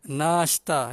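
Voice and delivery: "Nashta" with a long, drawn-out first "naa"; long vowel. Shown as a demonstration. Teacher models the breakfast word, long "naa" in "Nashta". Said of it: "nun tu kena panjang".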